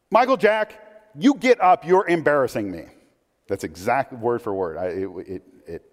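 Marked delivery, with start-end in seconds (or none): 0.1-2.8 mock a mother ordering her son up; scolding mom.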